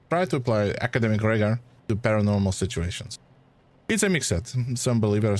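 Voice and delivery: put-on a light French accent drifting toward Spanish; loosely French-accented scholar explaining. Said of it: "Kinda went Spanish there".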